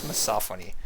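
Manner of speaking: "misophony" with short first vowel, mi-SOPH-ony; corrected misophony. Real, not acted. Streamer repeating the corrected word, "misophony" said mi-SOPH-ony. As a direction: stress the second syllable of "misophony".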